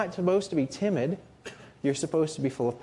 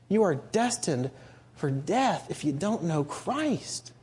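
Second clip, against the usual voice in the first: solemn warning; slower than usual. Real, not acted.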